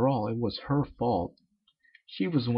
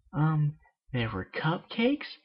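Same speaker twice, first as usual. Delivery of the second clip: higher, slow timid answer; timid Pinkie; 5 semitones higher, slower than usual. Acted. Pinkie sheepishly answers the angry Miss Cake. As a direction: sheepishly offer an excuse.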